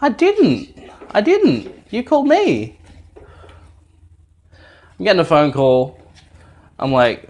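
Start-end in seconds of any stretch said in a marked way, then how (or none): 0.0-2.8 defensive denial. Real, not acted. Bickering over who called.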